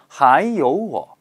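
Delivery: 还有我 slowed down, with 有 in the right tone; tone demo. Shown as a demonstration. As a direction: draw out 还有我 to show each tone. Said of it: "요우도 몇 성으로 발음하셔야 돼요".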